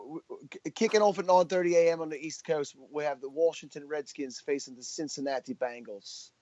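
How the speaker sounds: put-on a light London accent for a sports announcement, only lightly done. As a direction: announce the match in a half-hearted London accent. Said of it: "I wanna hear one last Sal London impression".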